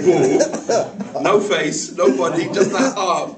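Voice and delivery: words breaking into loud laughter; laughing while telling. Real, not acted. Storyteller cracking up at the neighbour's view, laughing. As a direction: laugh through the punchline.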